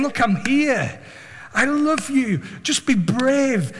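high, earnest voice of God encouraging; God's reassurance. Acted. God urging a believer to be brave, reassuring. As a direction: plead with slow, heartfelt insistence. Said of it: "it was like God saying".

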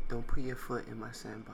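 a mocking echo of the Italian-American mobster line; imitating the Italian accent. Friend mocking the sandbox line, in a laughing mock Italian-American accent. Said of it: "He said".

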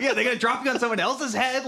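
high, laughing indignant question; laughing quote. Retold or imitated. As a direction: laugh through the outrage. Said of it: "He's like".

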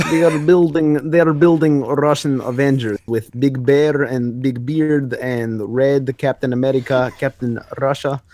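a light, hammed-up Russian accent; slow half-hearted Russian accent. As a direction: recap it like a mock Russian, slowly. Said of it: "recap this with the Russian accent".

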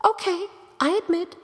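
high, rushed concession bursting into a long wail; hammed-up exasperated "come on". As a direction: rattle it off high, then stretch the last words. Exasperated concession, building to outburst.

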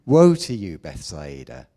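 Jesus pronouncing woe on the cities, at full preaching force; preached woe. Acted. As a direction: call down woe like a prophet from the pulpit. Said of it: "He says".

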